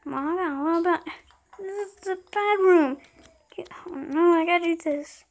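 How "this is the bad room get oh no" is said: scared breathless whisper; terrified horror victim. Real, not acted. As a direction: whisper in dread, voice gone. Scared in the bad room.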